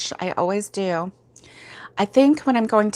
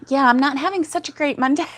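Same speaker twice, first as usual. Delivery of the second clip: whispered aside; 7 semitones higher, faster than usual. Real, not acted. Sad Monday news, half whispered.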